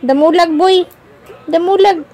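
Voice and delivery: high, sing-song teasing chant. Real, not acted. Mom teasing her chubby baby in high sing-song baby talk. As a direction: coo it up high like a game.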